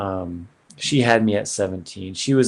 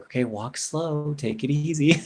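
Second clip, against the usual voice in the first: nurse cautioning; 6 semitones higher than usual. Retold or imitated. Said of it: "she's like".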